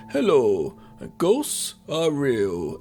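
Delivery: very slow, earnest TV presenter; deadpan serious host, drawn out; sensible presenter voice. Retold or imitated. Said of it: "real sensible guy who's like".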